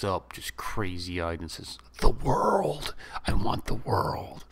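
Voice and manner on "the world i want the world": defiant cry. Retold or imitated. Boy answers the Don.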